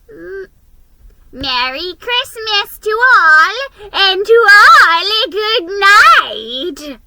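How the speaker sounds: high, loud call from far off, slow at the end; tiny distant voice calling. A narrator's reading. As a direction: call out across the snowy night. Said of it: "a tiny voice in the distance calling".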